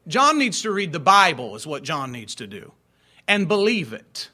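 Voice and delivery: loud, pointed rebuke. Real, not acted. Pastor scolding absent preacher, loud rebuke. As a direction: hammer home the scolding.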